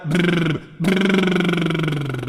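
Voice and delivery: lip trill. Shown as a demonstration. Coach leading audience warm-up, buzzing lip trill. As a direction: blow a long lip trill like a child. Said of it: "E agora".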